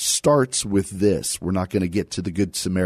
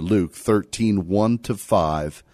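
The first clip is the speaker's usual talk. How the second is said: ordinary talk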